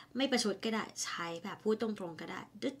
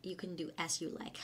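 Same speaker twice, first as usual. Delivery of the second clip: sarcastic; 2 semitones lower, 5 dB quieter, much slower than usual. Shown as a demonstration. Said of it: "เขาจะพูดประชดเนี่ย".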